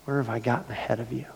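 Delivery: earnest prayer to God, rising; confession prayer. Retold or imitated. Pastor retelling his confession prayer to God, earnest. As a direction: confess before God, building. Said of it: "a kind of a confession time".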